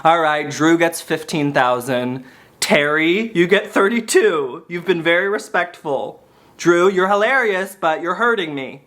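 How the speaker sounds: low, measured celebrity handing out sums; a famous singer. Acted. Star handing money to friends, lightly imitated, measured. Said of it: "She'd be like".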